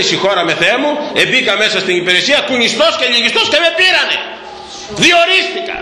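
a lightly mocked effeminate voice, rising high; mocking impersonation. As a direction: ham up the swaying, simpering applicant. Priest mimics a mincing man.

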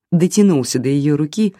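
usual speaking voice

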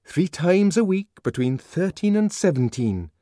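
keen to add his point; Bernard chiming in. A narrator's reading. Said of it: "put in Bernard".

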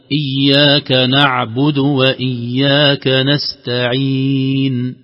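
very slow chant, clear ع in نعبد and نستعين; recitation model. Shown as a demonstration. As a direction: recite slowly for him to repeat. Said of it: "طيب، قل". (ترتيل بطيء واضح العين)

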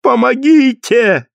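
high hoarse cry for help; exhausted hoarse plea. A narrator's reading. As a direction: cry out, worn out and terrified. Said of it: "кричала хрипло измученная". (измученная женщина хрипло зовёт на помощь)

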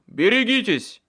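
loud, high cry of danger; shouted warning. A narrator's reading. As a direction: yell a warning at full urgency. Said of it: "крикнул в ответ Майкл". (предостерегающий крик)

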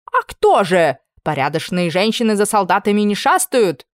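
preachy lecture. Acted. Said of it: "назидательно произнесла пожилая служанка".

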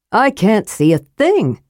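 a lightly voiced grumbling warrior; muttered complaint. A narrator's reading. Karaman to his companions, a mild muttered complaint. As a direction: grumble it under the breath. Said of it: "Karaman muttered".

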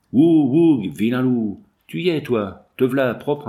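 gloating taunt with a howl; mocking howl. A narrator's reading. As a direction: jeer at the dead man like a wolf. Old trapper gloating over scalp.

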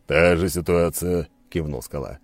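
Skala's voice. Acted. Skala voiced, slow and loud.

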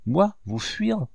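tender reassurance, drawn out slowly; softest tone. A narrator's reading. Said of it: "avec l'accent le plus doux". (avec la voix la plus douce, lente et haute)

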